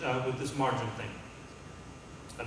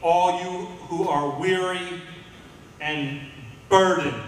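higher, louder, slow proclamation; voicing Jesus; 5 semitones higher, 6 dB louder, much slower than usual. Preacher voicing Jesus to a weary congregation, slow, loud and high. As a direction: call out the invitation slowly, arms open. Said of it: "Jesus said this".

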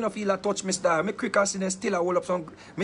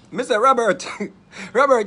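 calling out; 7 dB louder than usual. Real, not acted. Loudly calling on Robert to vouch.

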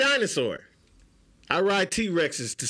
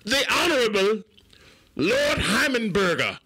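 high, slow hammed-up English herald accent; pompous mock English announcer, much higher; bad English accent; 7 semitones higher than usual. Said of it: "his English accent need work".

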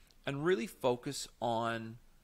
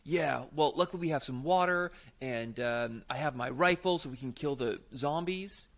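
eager in-scene voice, a bit louder; caught up in the plot; 4 dB louder than usual. Shown as a demonstration. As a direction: play along with the story, brightly. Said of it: "the first obvious option is I get caught up in this".

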